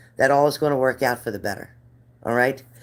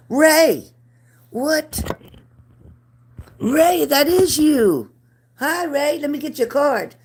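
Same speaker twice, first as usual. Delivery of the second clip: very high, bright, louder welcome; excited greeting; 8 semitones higher, 4 dB louder than usual. Real, not acted. Greeting a familiar viewer.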